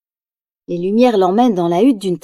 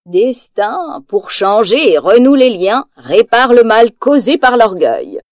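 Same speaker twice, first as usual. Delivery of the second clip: mysterious incantation; slower than usual. Acted. Reading the witch's riddle.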